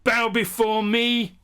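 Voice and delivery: hammy evil overlord decree; dark lord. Acted. Mirror universe villain opening.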